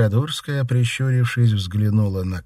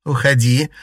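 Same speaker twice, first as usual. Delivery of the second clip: higher, louder, slow and curt; sharp order; 5 semitones higher, 8 dB louder than usual. Acted. Delphine ordering her lover out of the room, sharp. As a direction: send him away with a cutting command. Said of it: "резко сказала Дельфина".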